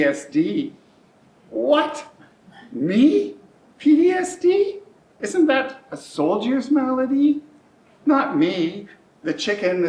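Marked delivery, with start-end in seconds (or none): 1.5-8.9 much higher and louder, stunned; high incredulous outburst; shocked disbelief. Retold or imitated. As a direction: recoil in disbelief at the news. Shocked at PTSD diagnosis.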